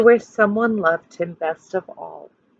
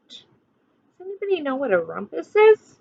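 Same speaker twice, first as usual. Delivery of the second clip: ordinary delivery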